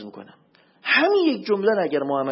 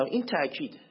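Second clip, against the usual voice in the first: ordinary talk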